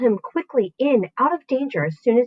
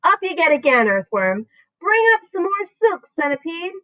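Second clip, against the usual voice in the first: brisk orders; 7 semitones higher than usual. A narrator's reading. Giving orders.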